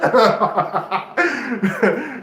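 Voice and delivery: loud high laugh. Real, not acted. Vlogger laughing at his friend's voice, loud laugh. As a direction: burst out laughing.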